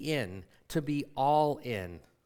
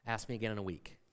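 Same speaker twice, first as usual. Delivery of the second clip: quiet and prompt; 5 semitones lower, 10 dB quieter, faster than usual. Retold or imitated. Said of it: "And she promptly said".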